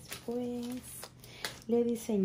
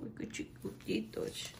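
whispered aww; 2 semitones higher, 7 dB quieter than usual. Real, not acted. Cooing over tiny clothes.

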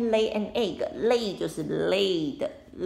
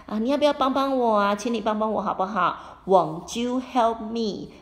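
put-on pleading old lady; 3 semitones higher, 4 dB louder than usual.

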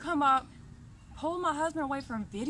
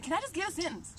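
softer, gentle ask for a sentence; polite request; 4 semitones higher, 3 dB quieter than usual. Retold or imitated. Showing the visitor how he really asked, softly and politely. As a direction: ask nicely, almost pleading. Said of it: "I didn't even say it like that".

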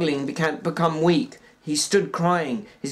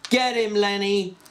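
yell; 5 semitones higher than usual. A narrator's reading. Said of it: "cupped his hands around his mouth and yelled".

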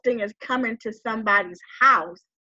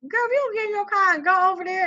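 bossy cousin; 8 semitones higher, faster than usual. Retold or imitated. Cousin scolding her on phone.

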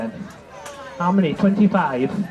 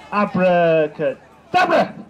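magic incantation; 5 semitones lower, much slower than usual. Pretend. Second try at the spell.

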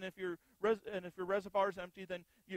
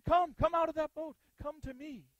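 inviting call; 6 semitones higher, 6 dB louder than usual. Acted. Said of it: "He said".

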